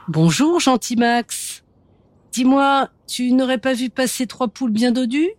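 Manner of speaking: sly fox. Acted. Sly fox voiced in story.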